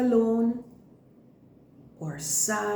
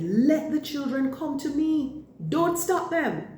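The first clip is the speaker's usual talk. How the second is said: upset Jesus; 5 semitones higher than usual. Acted. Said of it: "Jesus became upset".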